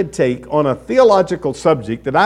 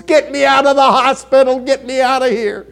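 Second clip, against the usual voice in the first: high frantic yell of a patient; screaming lady; 9 semitones higher, 4 dB louder than usual. Retold or imitated. ER patient screaming to get out, high frantic yell. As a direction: yell it like a panicked patient wanting out. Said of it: "she's screaming to the top of her lungs".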